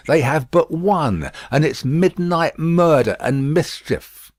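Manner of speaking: outraged busybody; indignant Miss Pross. A narrator's reading.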